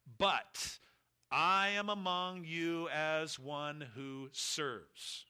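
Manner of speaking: slow, measured voice of Jesus; voicing Jesus. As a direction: lay each word down slowly as the Lord. Quoting Jesus' own words.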